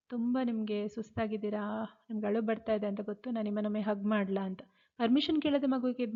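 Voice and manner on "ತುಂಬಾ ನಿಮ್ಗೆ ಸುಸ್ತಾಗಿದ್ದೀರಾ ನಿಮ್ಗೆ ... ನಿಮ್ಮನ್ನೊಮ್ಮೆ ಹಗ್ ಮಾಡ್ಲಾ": calm and gentle. Shown as a demonstration. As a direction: gently offer comfort, kneeling close. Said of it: "ಸಮಾಧಾನವಾಗಿ ಕಣ್ಣಲ್ಲಿ ಕಣ್ಣಿಟ್ಟು ಹೇಳ್ಬೇಕು".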